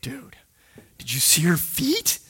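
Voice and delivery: hushed imitated whisper. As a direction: lean in and breathe it secretly. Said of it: "And he's like".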